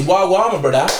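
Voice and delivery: lightly imitated mocking street greeting; mimicked slang greeting. White guy greeting a black man, mock slang. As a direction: put on a cartoonish version of their slang. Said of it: "he starts speaking like that to you".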